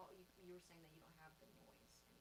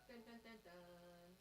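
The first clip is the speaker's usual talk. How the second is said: dramatic dun dun; much slower than usual. Shown as a demonstration. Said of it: "That sounds like".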